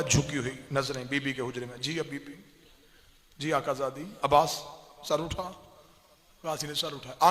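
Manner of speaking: soft, withdrawn telling; hushed recitation. Acted. Zakir telling mourners of the chamber scene, hushed and soft. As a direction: drop to a near hush for the quiet scene.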